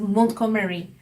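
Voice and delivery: 몬트고메리 with a t and stressed 고메리; correct pronunciation. Shown as a demonstration. Teacher showing what natives understand, 몬트고메리 separated. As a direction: say 몬트, then 고메리 as its own unit. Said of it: "하면은 다 알아듣죠".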